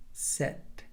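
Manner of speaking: "sit" with a short, relaxed ih; short I demo. Shown as a demonstration. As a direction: loosen the vowel in "sit". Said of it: "One more time".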